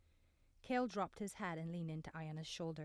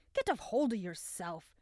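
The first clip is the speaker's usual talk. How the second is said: louder, commanding shout; stern shout; 7 dB louder than usual. A narrator's reading. Vian shouts at Desmond after throwing him in the sand, loud and commanding.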